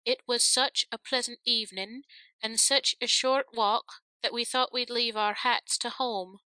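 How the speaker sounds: measured rote recitation to oneself; understated sing-out of a learned speech; reciting under breath. A narrator's reading. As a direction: rehearse a memorised line absent-mindedly. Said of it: "as she recited under her breath".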